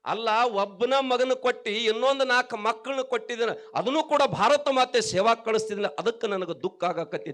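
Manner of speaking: loud, high, impassioned imitation of a weeping mother; retold grieving mother. Mother laments having only sons to give Mother India, acted grief. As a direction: act out a mother's lament at full voice, without sobs. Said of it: "ಆ ವಿದ್ಯಾವತಿ ಅಳ್ತಾಳತ್ತ".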